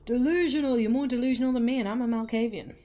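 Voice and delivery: loud playful taunt. Acted.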